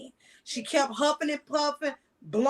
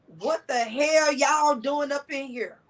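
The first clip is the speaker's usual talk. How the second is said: slow, louder mock scold; angry cussing; 2 semitones higher, 5 dB louder, slower than usual. Caseworker cussing out the brothers at dawn, mock angry scold. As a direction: bark it like a pissed-off caseworker. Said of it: "That's how she said it".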